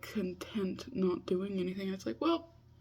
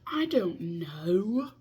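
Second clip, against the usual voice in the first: whispered I don't know; 5 dB louder, much slower than usual. Real, not acted. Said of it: "What are you doing in your life?".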